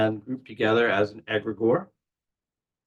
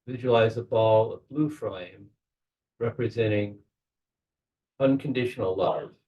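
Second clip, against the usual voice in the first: measured guiding voice with long pauses; unhurried guide, pausing to let each image settle; guided meditation. Real, not acted. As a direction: talk them gently into a visualization, phrase by phrase. Leads a guided visualization.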